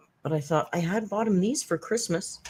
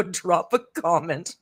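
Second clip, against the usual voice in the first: slow, breathy whisper; slower than usual. Retold or imitated. Host retelling her invite to the funeral director, whispering. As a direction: whisper it as a sly aside.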